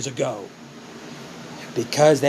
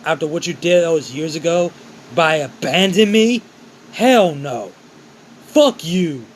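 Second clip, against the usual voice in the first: pissed off; 3 semitones higher, 4 dB louder than usual. Acted. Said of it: "Ryu get pissed off".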